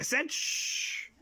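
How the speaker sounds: slow whispered scold; insistent hush. Acted. Telling a noisy friend to hush, whispered. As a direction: whisper it firmly, slowly. Hushing again, more firmly.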